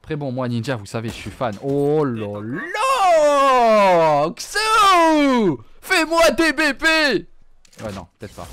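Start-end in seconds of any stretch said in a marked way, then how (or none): 1.6-7.3 loud excited cheer; excited shouting. Real, not acted. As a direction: cheer him on loudly. Cheering a player.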